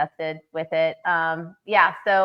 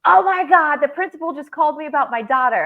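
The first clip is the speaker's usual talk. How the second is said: high, loud retelling of a panicked call; panicked friend; 6 semitones higher, 6 dB louder than usual. Retold or imitated. Friend retelling a frantic call about her daughter, high and loud. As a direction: play the frantic mom on the phone. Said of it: "She goes".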